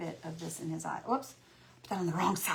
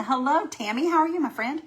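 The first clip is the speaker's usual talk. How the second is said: cheerful greeting; 8 semitones higher, 7 dB louder than usual. Real, not acted.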